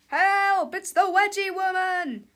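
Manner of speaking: loud, high call for help; hammed-up panic; panicked cry. A narrator's reading. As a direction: cry out in cartoon alarm. Victim calls for help.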